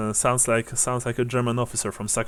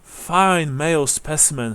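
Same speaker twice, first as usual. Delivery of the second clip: lightly voiced odd old lady; a hint of a peculiar elderly widow; rather strange old woman; 4 semitones higher than usual. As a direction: reminisce haltingly, a touch strangely. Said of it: "she says, rather strangely".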